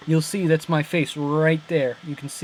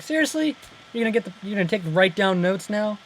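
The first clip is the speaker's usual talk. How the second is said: much higher, fast sarcastic disbelief; mock incredulous Bucky; 5 semitones higher, faster than usual. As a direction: play Bucky scoffing at the therapist. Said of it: "Bucky was like".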